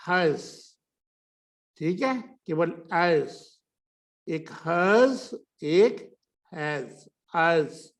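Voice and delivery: हज said with a short ə; weak has. Shown as a demonstration. Teacher showing weak has as हज. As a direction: contrast हज and हैज clearly. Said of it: "अ के साथ बोल रहे हैं".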